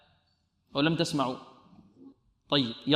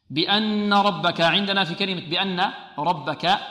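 ترتيل قرآني; 2 semitones higher, slower than usual. Shown as a demonstration. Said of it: "يقرأ الآية مرتلة".

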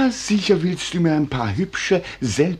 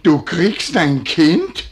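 stunned disbelief; 4 dB louder, much slower than usual. Acted. Husband repeats in disbelief.

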